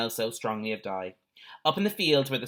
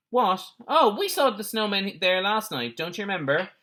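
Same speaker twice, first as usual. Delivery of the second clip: raised man's voice; 8 semitones higher, 3 dB louder than usual. A narrator's reading. Second man's gruff reply.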